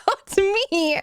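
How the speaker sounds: words squeezed through laughter; crying with laughter about her foot; laughing till crying. Real, not acted. Laughing at own foot fright.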